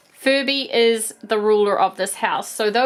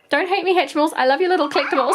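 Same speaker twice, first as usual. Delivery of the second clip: playful apology; 6 semitones higher, much faster than usual. Real, not acted. Apology addressed to toys.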